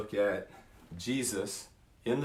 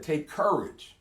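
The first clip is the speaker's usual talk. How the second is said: higher, ringing call to take courage; Jesus urging courage; 5 semitones higher, slower than usual. Acted. Jesus calling to the terrified disciples, ringing encouragement. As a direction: lift it up like a call to the frightened brothers. Jesus voiced in retold story.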